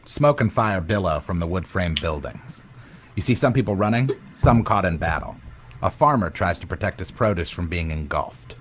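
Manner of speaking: dramatic scene-setting narration; game master narration. Acted. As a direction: set the scene like a dungeon master. DM sets the scene.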